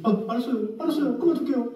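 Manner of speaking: high-pitched hurried giving in; compliant church members. Retold or imitated. Church members obeying their yelling pastor, high-pitched imitated submission. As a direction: play followers yielding at once. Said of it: "그래서 성도들이".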